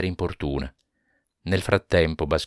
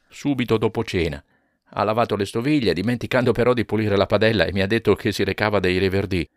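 lightly higher, quicker husband's answers; husband recounting the evening, mildly higher; a hint of Jonas; 4 semitones higher, 3 dB louder, faster than usual. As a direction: recount it a touch hurried.

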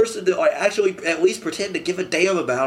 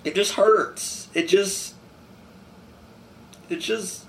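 crying; much slower than usual. Real, not acted. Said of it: "I've never really cried like this before".

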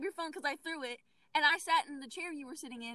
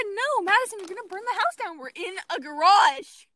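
retold alarmed warning; 6 semitones higher, 10 dB louder than usual. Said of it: "I said".

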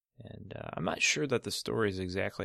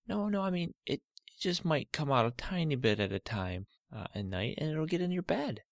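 lightly voiced, slightly higher soothing dad; dad calming his daughter; 7 semitones higher than usual. Father calming Olivia about her cut toe, gentle. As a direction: gently reassure the hurt girl.

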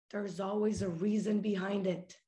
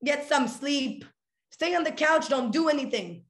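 life scolding her; 2 semitones higher than usual. Pretend. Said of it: "life telling me".

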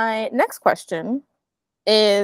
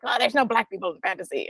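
mock critic; 5 dB quieter, faster than usual. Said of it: "it was like".

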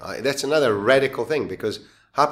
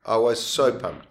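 slower and emphatic on so; excited. Shown as a demonstration. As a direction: punch the word so with excitement. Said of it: "repeated with emphasis".

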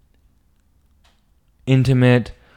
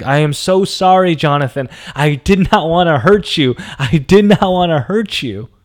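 imitating her crying apology, much higher and louder; a hammed-up tearful sorry, pitched high; mock sobbing plea; 7 semitones higher, 4 dB louder than usual. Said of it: "she just breaks down".

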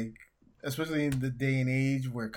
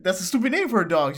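mock insult; 6 semitones higher, 7 dB louder, faster than usual. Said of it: "he's like".

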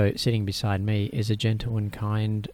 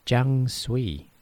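imitating Siri; 5 semitones higher than usual. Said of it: "I have a female voice. And she says".

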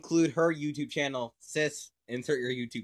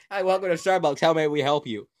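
mock barista greeting; 2 semitones higher, 6 dB louder, faster than usual. Plays Starbucks barista skit.

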